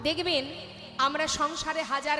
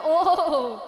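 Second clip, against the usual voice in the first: villager laughing; 3 semitones lower, slower than usual. Retold or imitated. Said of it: "বলে".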